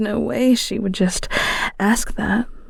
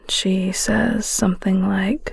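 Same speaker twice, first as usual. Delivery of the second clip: whispered narration. Acted. Narrator whispering to the listener about a friend.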